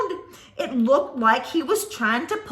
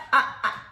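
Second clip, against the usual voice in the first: monster laugh; 2 semitones lower than usual. Acted. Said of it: "The creature laughed".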